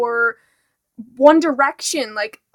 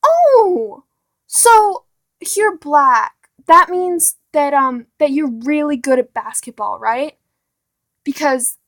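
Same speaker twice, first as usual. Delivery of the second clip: mock ignorant person; 6 dB louder than usual. Mocking someone stereotyping a tall black guy. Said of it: "be like".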